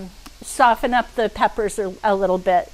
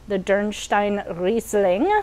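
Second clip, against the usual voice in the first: put-on slow, playful German accent; 4 dB quieter, slower than usual. Showing off a wine's name to viewers, German accent. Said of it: "That's my German accent".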